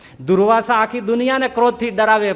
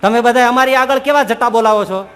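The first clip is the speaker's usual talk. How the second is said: mock scolding; 3 semitones higher, 6 dB louder than usual. Mocking scolding of a holy man.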